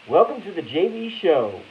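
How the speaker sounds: lightly voiced show opener; imitating Blackie. Host greets viewers in a lightly voiced Blackie welcome. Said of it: "that's my Blackie impersonation".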